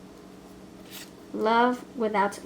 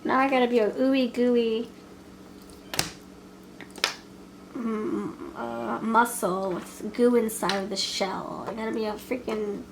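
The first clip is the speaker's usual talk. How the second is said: mock dismay. Voicing the reluctant lover.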